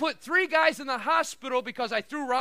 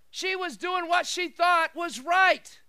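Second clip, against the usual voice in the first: emphatic; 4 semitones higher, 4 dB louder, slower than usual. Real, not acted. Preacher's emphatic point.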